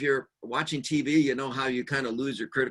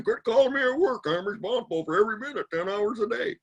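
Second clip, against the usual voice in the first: much higher, louder exasperated snap; mock-angry older brother on the phone; annoyed brother; 9 semitones higher, 3 dB louder than usual. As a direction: bark it like an irritated cop brother. Brother snapping about work calls.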